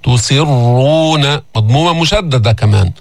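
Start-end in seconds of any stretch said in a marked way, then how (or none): 0.0-1.4 slow تسرون, light "si" into a thick doubled ر; held heavy رّ and long u in تسرون. Shown as a demonstration. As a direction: draw out تسرون with a dark, untrilled rr. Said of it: "انتقل إلى الراء المفخمة".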